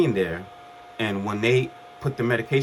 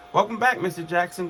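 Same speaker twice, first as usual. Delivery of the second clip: cheery doctor greeting; 9 semitones higher than usual. Retold or imitated. Doctors greeting waking patient.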